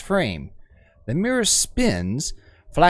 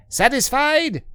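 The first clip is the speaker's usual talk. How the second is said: sneering overseer; 10 semitones higher than usual. Acted. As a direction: sneer it at the crowd. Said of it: "The overseer cries".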